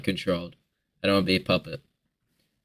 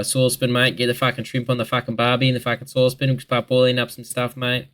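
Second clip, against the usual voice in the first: mock broad Aussie; 3 semitones higher than usual. Vlogger mocking Aussies for his viewers, hammed-up ocker accent. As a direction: lay the "mate"s on thick like a stereotype Aussie. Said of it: "Why do we do this as Australians".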